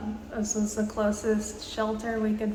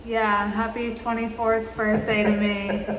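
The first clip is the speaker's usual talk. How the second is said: laughing wryly. Real, not acted. Birthday stuck in storm.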